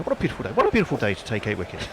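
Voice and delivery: lightly voiced music-hall comic; a hint of a comedian's catchphrase delivery; Ken Dodd. Reader turns a listener's tweet into light comic patter. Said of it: "Going a bit Ken Dodd there".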